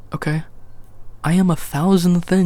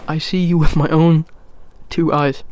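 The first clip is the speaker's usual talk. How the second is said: talking with hair in mouth; 5 dB louder than usual. Real, not acted. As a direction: speak around a hair on the lips. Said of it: "there's hair in my mouth".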